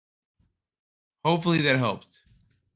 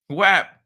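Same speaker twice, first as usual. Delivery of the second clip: short, higher-pitched slap sound effect; imitated smack; 5 semitones higher than usual. Streamer miming the pop in the face, imitated smack. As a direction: pop out a quick mock impact. Acts out popping him.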